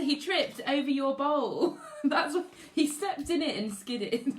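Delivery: giggling through the words; can't stop laughing while reading. Real, not acted. Teacher laughing as she reads out the pupil's mishap. Amused retelling of pupil's comment.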